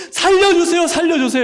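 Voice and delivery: loud high cry for help. Acted. Person stuck in a pit shouting for rescue, loud and high.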